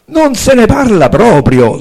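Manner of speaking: loud, high, slow-stretched refusal; outburst. Acted. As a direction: burst out with an emphatic refusal. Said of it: "sbottò Cincillà". (sbotta indignata)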